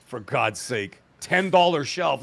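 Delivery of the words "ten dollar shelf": mock impressed. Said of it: "Look at him brag".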